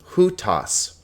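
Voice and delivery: "hutas" with an H before the "oo" vowel; rough breathing H. Shown as a demonstration. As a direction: start "hutas" on an audible H. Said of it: "there's a rough breathing mark over this vowel".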